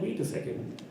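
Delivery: suspicious teacher. Retold or imitated. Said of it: "Then she's like".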